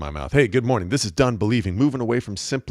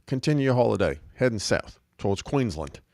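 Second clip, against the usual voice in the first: imitated friendly Kiwi accent, a bit higher; New Zealand accent; 4 semitones higher than usual. Driver inviting hitchhikers to stay the night, in a New Zealand accent. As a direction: play the hospitable Kiwi driver, accent lightly put on. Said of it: "He's like".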